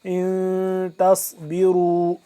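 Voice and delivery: تصبروا with a thick, heavy sad and full ra. Shown as a demonstration. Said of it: "صاد کو موٹا پر کر کے پڑھیں گے".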